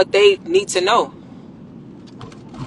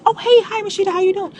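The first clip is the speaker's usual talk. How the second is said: higher, chirpy banker welcome; friendly banker greeting; 11 semitones higher than usual. Retold or imitated. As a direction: greet her like an old friend. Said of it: "I come back".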